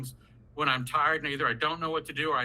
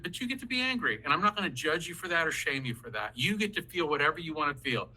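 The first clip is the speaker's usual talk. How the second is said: mildly voiced validating parent; accepting parent. Shown as a demonstration. Parent telling an angry kid it's fine to feel it, easygoing. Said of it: "you say to your kid".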